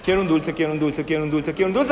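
rapid-fire repeated demand, lightly voiced child; child's broken record. Child begging parent for a sweet, nagging broken record. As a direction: nag on a loop, lightly imitating a child. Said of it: "Cómo hacen ellos cuando quieren algo".

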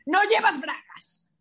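mock shocked exclamation. The date finding no pocket, high mock astonishment. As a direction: act scandalised at the discovery. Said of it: "Y cuando meta la mano".

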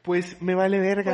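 suéltalo fuerte y lento, retador; desafío a gritos, alargando las palabras; grito desafiante. Acted. Actúa la respuesta desafiante. (grito retador y lento)

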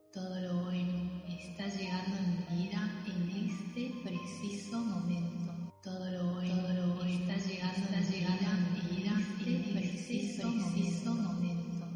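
voz lejana y muy tenue; eco de fondo. Acted. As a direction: repite la afirmación como un eco distante. Ecos superpuestos de la afirmación. (eco suave y lejano)

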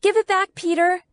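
high, loud, urgent plea; panting demand. A narrator's reading. Girl grappling with Peter for her letter, urgent demand. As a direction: demand it back, pitched right up. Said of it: "I pant".

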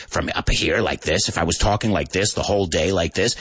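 demonstrated throat-bound voice; strained, unsupported throat voice; talking from the throat. Shown as a demonstration. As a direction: squeeze the words up in the throat. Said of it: "If I was talking from my throat".

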